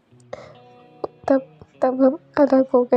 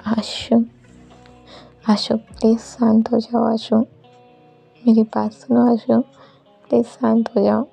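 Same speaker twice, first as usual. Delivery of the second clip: lightly voiced anxious plea; understated imploring; mild acted pleading; 2 semitones higher than usual. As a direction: gently urge him to calm down and stop. Acted plea to stop beating.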